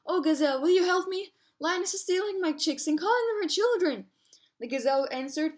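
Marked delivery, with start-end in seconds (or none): 0.1-4.1 high, urgent storybook call; calling for help. A narrator's reading. Mother ostrich asks the gazelle for help, high calling out. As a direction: call out higher and a little louder, appealing. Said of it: "Mother Ostrich called".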